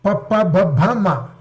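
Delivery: pa pa ba bha ma from the lips; lip consonants demo. Shown as a demonstration. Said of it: "Then oshtya".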